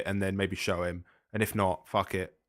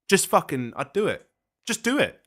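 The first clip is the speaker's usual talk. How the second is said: exasperated outburst; 9 semitones higher than usual. Real, not acted. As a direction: vent your frustration. Frustrated outburst at the character.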